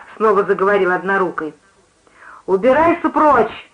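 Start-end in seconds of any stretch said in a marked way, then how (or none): 2.4-3.7 high, slow order to leave; angry shout. A narrator's reading. Giantess driving the one-armed man away, shouting. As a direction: send him off in a raised pitch. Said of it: "закричала великанша".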